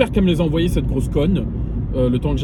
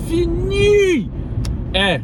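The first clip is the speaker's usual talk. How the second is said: loud cry jumping far higher; exasperated shout; 5 dB louder, much slower than usual. Real, not acted. Swearing never to drive that route again, in a loud exasperated shout. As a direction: yell it out in exasperation.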